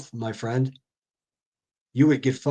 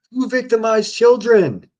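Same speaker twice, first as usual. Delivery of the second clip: higher, louder and slow, stunned disbelief; incredulous; 9 semitones higher, 5 dB louder than usual. Real, not acted. Cutting in on Timmy's claim about kids, slow incredulous question. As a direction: drag out the question, can't believe it.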